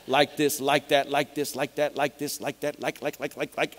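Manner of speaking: mock string of filler words, rattled off; mimicking filler-word overload. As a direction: parody someone who can't stop saying "like". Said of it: "literally said the word "like".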